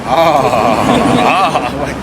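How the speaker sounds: normal talking voice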